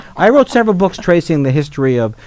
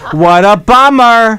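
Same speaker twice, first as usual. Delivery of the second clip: hippie voice; 6 semitones higher, 4 dB louder, slower than usual. Retold or imitated. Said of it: "Is that what they used to say?".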